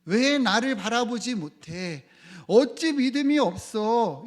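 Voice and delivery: emphatic chiding, building in force; reproachful. Retold or imitated. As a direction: scold them, stretching each question out loud. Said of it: "제자들을 책망하듯 말씀하셨어요".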